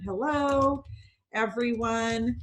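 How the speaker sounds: slow, spaced-out greeting; drawn-out typing aloud. Shown as a demonstration. Host demonstrating the chat to everyone on the call, drawn-out typing aloud. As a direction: stretch it out as if typing each word.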